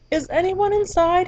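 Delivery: tiny polite butterfly at the door. Acted. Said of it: "he asked".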